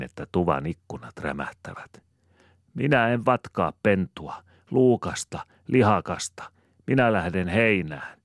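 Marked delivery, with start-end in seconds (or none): 2.7-8.2 put-on higher, louder stubborn child harping on. A narrator's reading. Little Sanelma defying her mother, stubborn and higher. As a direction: dig in and repeat it, defiant. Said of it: "jankkaa itsepäinen Sanelma".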